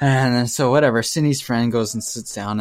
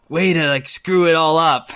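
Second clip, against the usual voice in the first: grumpy guy; 4 semitones higher than usual. Retold or imitated. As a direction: sneer it like a grumpy stranger. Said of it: "he looks like a grumpy or kinda middle-aged guy".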